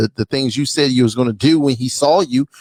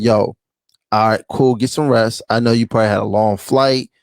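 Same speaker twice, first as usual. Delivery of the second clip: lower, easygoing, unbothered tone; calm cool reply; 5 semitones lower than usual. Retold or imitated. Man calmly telling his date to rest, lower easy tone. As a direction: keep it chill and reassuring. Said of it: "I would have been like".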